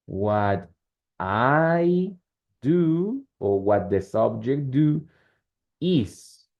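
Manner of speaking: slow, word-by-word dictation; dictating. Shown as a demonstration. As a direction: spell out the structure slowly, pausing between chunks. Teacher dictating a grammar structure slowly.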